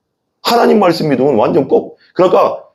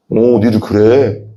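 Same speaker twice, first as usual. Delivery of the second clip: slow, low, lightly voiced divine threat; a hint of a stern God saying so that's how it is; preacher voicing God's ominous reply, slow and low; menacing God; 5 semitones lower, slower than usual. God answering grumbling people.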